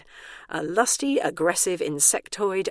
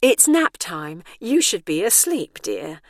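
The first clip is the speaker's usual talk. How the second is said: patronizing attendant; 6 dB louder, slower than usual. Acted. Operative scolding sweetly.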